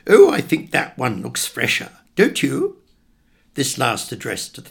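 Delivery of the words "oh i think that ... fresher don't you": loud, chirpy interruption; mother's irritating interjection; irritating piping-up. Acted. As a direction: pipe up annoyingly, lifting the tag question high. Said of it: "pipe up in her most irritating way".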